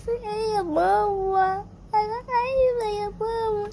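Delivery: cling to mama in fear; scared little girl crying for her mother; frightened child. Acted. Child scared as ground shakes.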